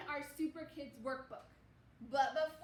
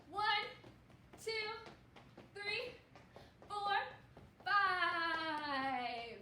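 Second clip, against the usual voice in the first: excited counting; 3 semitones higher, much slower than usual. Real, not acted. Counting kids running in place.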